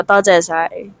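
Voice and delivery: "toze sai" with a rise on toze; Cantonese phrase. Shown as a demonstration. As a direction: teach "toze sai" slowly and carefully. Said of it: "you say". (pagtuturo ng bigkas na "toze sai")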